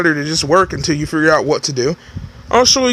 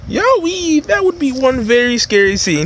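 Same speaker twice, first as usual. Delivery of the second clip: startled cry; 7 semitones higher than usual. Acted. Voices partner shocked.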